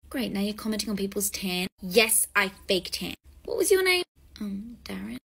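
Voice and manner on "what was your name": high, loud sharp question; imperious demand. Acted. Fake celebrity coldly demanding the guest's name.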